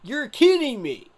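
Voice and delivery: can't believe what he's seeing; disbelief. Real, not acted. Reacting in disbelief to pick.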